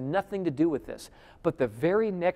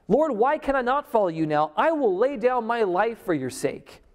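raised, louder eager protest; bold protest; 5 semitones higher, 4 dB louder than usual. Acted. Peter boldly protesting to Jesus, raised and louder. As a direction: Peter insisting he'll follow.

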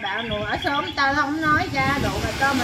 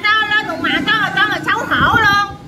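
heated rant, voice raised; real hollering tirade; 3 semitones higher than usual. Real, not acted. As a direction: keep protesting at a raised pitch, insistently. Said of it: "Đừng có lai làng". (la làng, giọng bức xúc)

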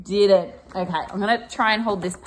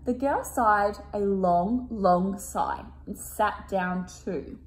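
slow careful reread; 2 semitones lower, slower than usual. Shown as a demonstration. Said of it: "I'm gonna read that one again".

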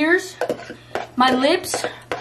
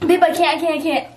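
desperate pleading; 2 semitones higher, faster than usual. Real, not acted. Giving up on the challenge.

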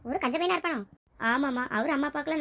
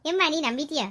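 laughing it off. Acted. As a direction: laugh as if it was only teasing. Laughs off the exposed pretence. (சிரித்து மழுப்பல்)

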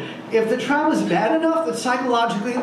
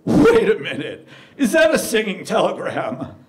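lightly voiced club DJ; DJ announcer; 2 semitones lower than usual. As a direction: put on a hint of a club DJ. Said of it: "I hear the D J say".

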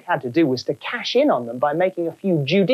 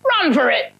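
high panicked yelling; frightened cries; 10 semitones higher than usual. Acted. Stagehands fleeing the phantom, high panicked cries. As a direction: panic and flee. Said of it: "they cried".

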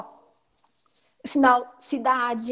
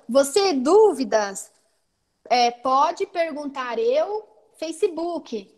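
slow, sign-by-sign phrasing of "Você dúvidas"; word by word, slowly, pausing before "Facebook"; Libras word order; much slower than usual. Shown as a demonstration. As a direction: space out "pode perguntar eu, Facebook" like signed glosses. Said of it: "Bem Libras mesmo".

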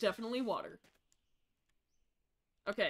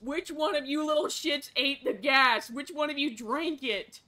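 angry yelling; 3 semitones higher, 5 dB louder than usual. Acted. Mother yelling at the kids.

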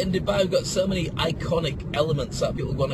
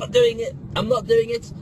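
high, strained mock protest; half-crying mock resistance; resisting volunteer; 7 semitones higher, 4 dB louder than usual. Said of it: "if they decide to sort of plug in".

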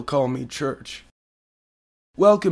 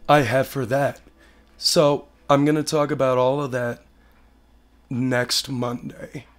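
hoarse sick voice. Real, not acted. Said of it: "I sound like shit right now".

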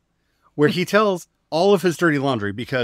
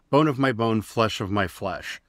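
mock Adam; 3 semitones lower than usual. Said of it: "looks at this woman and says".

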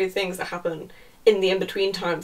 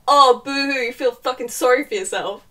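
mocking sneer; 3 semitones higher, 4 dB louder than usual. Sarcastic paraphrase of his attitude.

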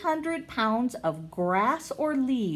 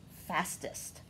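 fastest whispered, much softer; 5 semitones lower, 12 dB quieter than usual. Shown as a demonstration. Repeats the list quietly.

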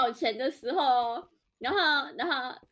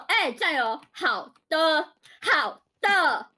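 好的 punched hard, rising louder each time; clipped stress; 2 semitones higher, 4 dB louder, much slower than usual. Retold or imitated. McDonald's manager drilling staff, stressed 好的. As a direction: bark 好的 like drill orders. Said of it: "这个重音".

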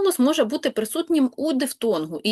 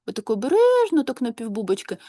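cautious half-open mouth, barely moving the lips; timid mumbling demo. Shown as a demonstration. Teacher demonstrates pupils' timid half-closed mouth. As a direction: show a shy mumble as if hiding something. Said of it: "як наче там хтось має що вкрасти".

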